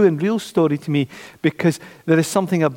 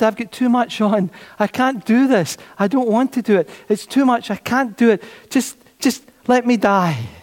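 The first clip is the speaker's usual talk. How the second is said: overwhelmed refusal; 6 semitones higher than usual. Retold or imitated. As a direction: play her begging off, too much. Widow voiced refusing, overwhelmed.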